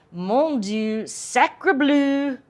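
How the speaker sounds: hammed-up French gasp; a lightly voiced French shock; mock French exclamation. Shown as a demonstration. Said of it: "I just said that like it was a country bumpkin".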